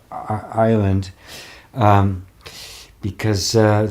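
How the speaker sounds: ordinary delivery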